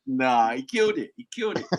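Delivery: crusty sick voice. Retold or imitated. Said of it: "the Ponytail voice, all crusty".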